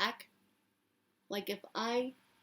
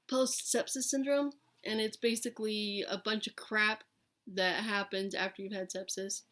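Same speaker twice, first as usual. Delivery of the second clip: raspy, like years of smoking; hoarse, worn-out rasp; smoker's rasp; 6 dB louder than usual. Real, not acted. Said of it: "I sound like I've been smoking for fifty years".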